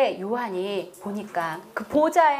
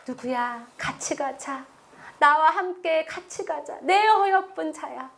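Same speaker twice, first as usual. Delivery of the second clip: tender invitation. Acted. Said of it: "오늘도 이렇게 말하고 계십니다".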